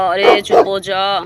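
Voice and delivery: loud, urgent shushing yell; telling the dog off. Acted. Thief to the barking dog, loud and desperate. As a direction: shut that dog up now.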